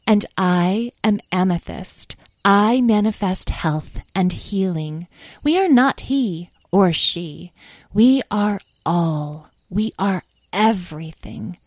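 slow, grand proclamation; solemn fairy. Acted. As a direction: declare your nature with measured pauses. Fairy Amethyst declares their nature.

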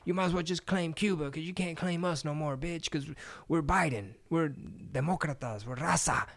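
high, mocking voice of a scolding Democrat; mock Democrat Mexican. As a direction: sneer it like a smug partisan.

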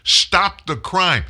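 slow, loud, high chant-like repetition; emphatic slogan. Real, not acted. Host hammering his point to listeners, slow and loud. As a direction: pound the slogan out word by word.

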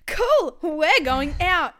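imitating a hyped-up friend; excited friend. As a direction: squeal it like the night's just starting. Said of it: "the girl's like".

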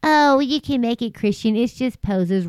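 high, breezy mock voice of a churchgoer; mock dismissive church member. Imitating church staff defending yoga, a breezy mock voice. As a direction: brush it off lightly, imitating them. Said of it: "retold church people's excuse".

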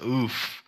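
mock winded "oof"; quoted groan, lightly done; imitated oof. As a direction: mimic a punched groan. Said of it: "Like I punched you in the kidney".

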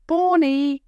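loud high call across the clearing; calling out loudly. A narrator's reading. Brother calling for his sister in the clearing, loud call. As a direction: shout her name to find her. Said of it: "he called out loudly".

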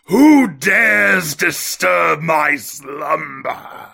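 slow booming monster voice; awakened ancient being. Acted. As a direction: drag it out like a woken giant. Guest host freed from glass.

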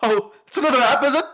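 high, loud mock exasperation; exasperated voice. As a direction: groan it out as the character. Mimicking exasperated character.

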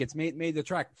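talking around a bite of egg; chewing while speaking; mouth full. Real, not acted. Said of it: "hard to take me seriously with this cream egg in my mouth".

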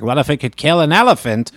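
a light hint of an old newsreel announcer; old-timey voice. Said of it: "The old-timey voice?".

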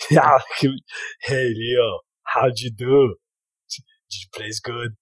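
lightly voiced Jamaican Arnie, prying; a hint of Jamaican lilt; Jamaican accent. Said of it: "I'm going in Jamaican voice".

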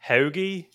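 "hoagie" with a long, fronted Philly O. Shown as a demonstration. Giving friends a key Philly word, "hoagie" with long fronted O. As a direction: stretch the O of "hoagie" toward the front of the mouth. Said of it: "It's like that long".

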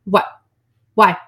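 angry whining to him. Pretend. Pretend angry wife demands husband turned her, building. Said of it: "I'm gonna be angry because I'm gonna be like".

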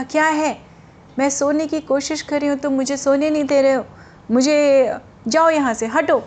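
mild irritated shooing; half-hearted angry telling-off; annoyed. Retold or imitated. Woman who cannot sleep shooing the seller away, mildly annoyed. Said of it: "झुंझलाहट में".

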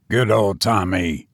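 a hint of the cousin coaxing his pet; cried out. A narrator's reading. Cousin coaxing the cat, mild call. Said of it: "he cried".

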